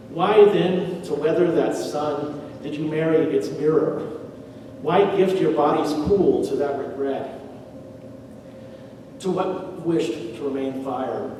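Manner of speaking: measured verse reading with pauses; poetry reading. Acted. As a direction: read the poem out line by line, unhurried. Reads poem lines aloud.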